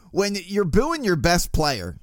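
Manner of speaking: slipping into a slow Baltimore accent; a touch of Baltimore in the vowels, drawn out. Real, not acted. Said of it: "man, that was a Baltimore accent right there".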